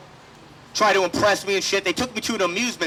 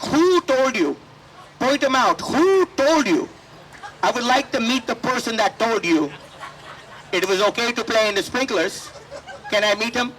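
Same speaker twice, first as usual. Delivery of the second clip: mock angry mom; 3 semitones higher than usual.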